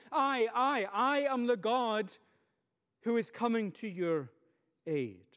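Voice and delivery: emphatic reassurance. Shown as a demonstration. God answering his people's cry, emphatic then reassuring. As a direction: reassure with weight, then ease off. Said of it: "words of emphatic reassurance".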